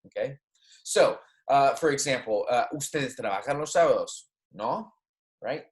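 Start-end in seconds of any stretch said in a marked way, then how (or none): 2.7-4.9 "No" tagged on with an upward tone; statement, then lift the voice on "No"; rising tag question. Shown as a demonstration. Teacher showing students a Spanish tag question, rising on "No". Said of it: "you see my intonation change a little bit".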